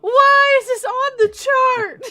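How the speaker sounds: high, loud incredulous rant; exasperated. Pretend. Mock outrage at chart.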